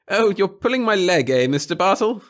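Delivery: high, nervous little official; a fussy, timid bureaucrat. Acted. Pettigill laughing it off.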